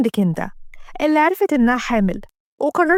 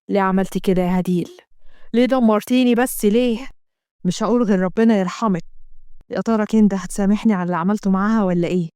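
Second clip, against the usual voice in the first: lower, regretful inner voice; a lightly voiced husband in remorse; low remorseful husband; grieving husband; 5 semitones lower than usual. Asem grieves to himself.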